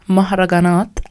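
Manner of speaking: mahraganat, each a open, rolled r; Arabic pronunciation. Shown as a demonstration. Retake for the camera, careful Arabic. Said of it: "One more time for the camera".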